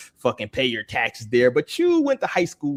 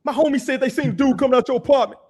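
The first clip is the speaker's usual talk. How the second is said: mock gossip; 11 semitones higher, 5 dB louder, faster than usual.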